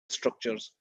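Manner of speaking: words breaking up, faint and distant; call dropping out. Real, not acted. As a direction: voice cutting out over a bad connection. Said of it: "we lost him".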